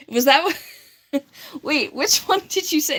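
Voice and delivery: puzzled. Real, not acted. Reading a confusing chat comment, slow and baffled. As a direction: stretch it out, lost by the comment.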